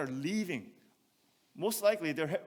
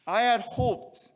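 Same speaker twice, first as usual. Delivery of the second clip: "I had hoped" slow, loud and high, leaning on "had"; emphatic "had"; 7 semitones higher, 10 dB louder, slower than usual. Shown as a demonstration. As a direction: drive home the word "had". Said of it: "means that at po-, one point".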